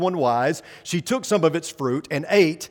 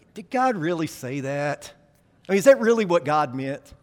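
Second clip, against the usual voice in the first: snide serpent voice. Pretend. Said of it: "Did he say, like".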